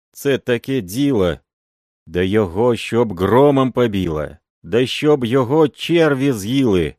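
loud, high pleading Ukrainian peasant; protesting old peasant. A narrator's reading. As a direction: wail out your innocence. Uncle Andrey protests, Ukrainian speech.

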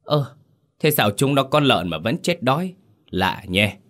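high startled "Ơ" then wondering; a touch of confused old master; puzzled surprise. Acted. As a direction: stop short, baffled. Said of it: "sững lại một chút".

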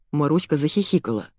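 usual speaking voice

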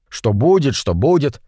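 mildly irritated retort; snapping back. Acted. Митя rounds on his whimpering friend, mildly snappish. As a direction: throw the question back, a touch cross. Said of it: "окрысился Митя".

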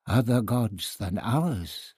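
a touch of a slow growl. Acted. Priest objecting to the other gods, mild growl. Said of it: "Clotoxel growled".

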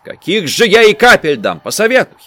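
a high, loud peasant granny's whine; grumbling old woman. A narrator's reading. Old granny pleading with the doctor, high whining voice. Старуха спорит с врачом.

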